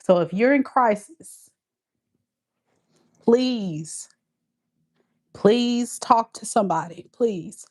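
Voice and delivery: pleading through tears; tearful plea. Real, not acted. She begs viewers in crisis to reach out, tearful plea. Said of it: "I'm crying".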